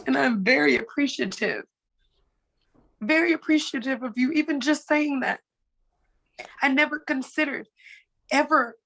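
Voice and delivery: deeply touched, voice lifting; thankful through welling emotion; moved to tears. Real, not acted. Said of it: "You brought me to tears".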